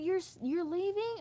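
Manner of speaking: a hint of a shocked mother; mock surprised mom. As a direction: mimic her disbelief. Mother's surprised reply, mocked.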